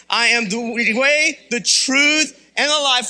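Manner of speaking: each phrase set apart, rising in force; recited with pauses. Shown as a demonstration. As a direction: separate "the way", "the truth", "the life". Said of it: "Say it again".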